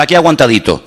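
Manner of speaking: a sighing, sorry-for-myself aguantadito; light mock self-pity on Aquí aguantadito; mock weary complaint. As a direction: play the believer who is just getting by. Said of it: "Y tú dices".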